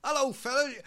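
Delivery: loud, high West Country greeting; West Country accent. Acted. Drummer jumping into the band's van, loud West Country accent. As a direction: hail them cheerily in West Country. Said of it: "he's from, like, the West Country".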